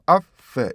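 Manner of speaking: "of" as short vowel, then separate "f"; two-beat rhythm. Shown as a demonstration. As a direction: split "of" into two beats, releasing the f. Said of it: "두 개의 리듬을 갖고 있죠".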